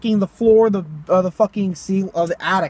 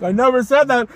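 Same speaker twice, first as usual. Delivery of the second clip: higher, more forceful protest; mock-indignant denial; insistent retold denial; 5 semitones higher, 3 dB louder than usual. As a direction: protest it, voice rising in pitch.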